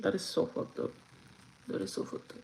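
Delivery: muttered disbelief. Real, not acted. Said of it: "repeated, second whispered".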